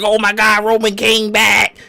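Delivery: high, drawn-out excited cry; hyped-up fan. Retold or imitated. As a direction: imitate a fan losing it with excitement. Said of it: "he was so hyped when Roman came back".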